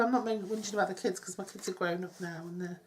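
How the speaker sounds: usual speaking voice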